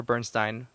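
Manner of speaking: Bernstein ending in "stine"; corrected pronunciation. Real, not acted. Podcaster correcting a mispronounced name, Bernstein as BURN-stine. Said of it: "mispronouncing it".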